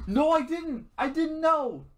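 loud, high-pitched denial; real exasperated outburst; indignant yell. Real, not acted. Shouted denial in argument.

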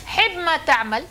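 "حب ما تعمل" slow, حب stressed, rising at the end; repeated saying. Shown as a demonstration. Teacher repeats the saying to prompt students, slowly. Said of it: "مين يشرح لنا هذه المقولة".

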